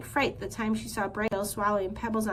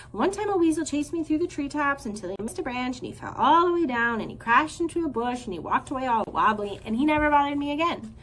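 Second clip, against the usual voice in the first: high, fast rambling squirrel voice; young squirrel meets gosling, high, fast nonstop chatter; breathless chatter; 4 semitones higher, 4 dB louder than usual. Acted. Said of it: "the squirrel shared her stories".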